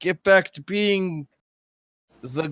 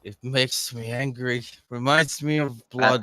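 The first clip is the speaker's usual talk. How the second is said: low angry grumble; 4 semitones lower than usual. Acted. Drunk guard to friends about red decor, low grumble.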